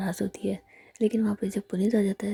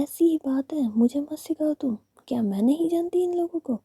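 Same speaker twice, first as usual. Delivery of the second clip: put-on angry girlfriend; 7 semitones higher, 4 dB louder than usual. Girlfriend scolding in acted quarrel.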